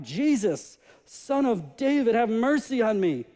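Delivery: crying out. Acted. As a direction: call out for mercy. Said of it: "he began to cry out".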